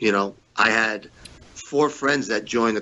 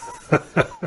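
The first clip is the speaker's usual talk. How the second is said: unvoiced laugh; 7 semitones higher than usual. Real, not acted. Laughs after mimicking boss.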